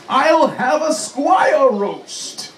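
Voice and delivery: slow, snorting dragon voice. Acted. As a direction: drag it out with a snort. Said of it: "It snorted out a little blaze".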